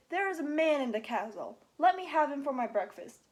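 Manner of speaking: loud hungry giant shout; booming demand, loud. Acted. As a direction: call out for your breakfast. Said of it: "Then he shouted".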